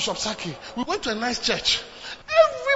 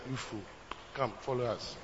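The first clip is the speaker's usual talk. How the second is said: hushed servants' order; 11 semitones lower, 13 dB quieter than usual. Acted. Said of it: "servants of Absalom came and said".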